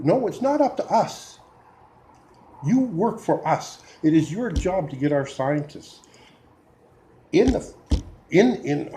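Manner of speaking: building real frustration at the government; getting worked up. Real, not acted. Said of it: "I'm getting worked up".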